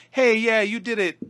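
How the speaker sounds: loud, high put-on cheer; mock hollow celebration. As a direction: congratulate with hammed-up fake enthusiasm. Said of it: "one of those hollow celebrations".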